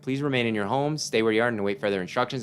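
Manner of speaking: brisk, even news anchor read; radio news read. Acted. Player reading the in-game radio bulletin to listeners. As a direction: deliver it like an emergency broadcast.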